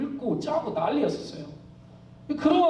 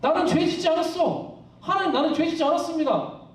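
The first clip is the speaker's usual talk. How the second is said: higher-pitched protest of innocence; mild mock outcry; 5 semitones higher than usual. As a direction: cry out to God, half-acted. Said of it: "그렇게 막 절규하는 거죠". (절규를 흉내 내듯 높은 목소리로)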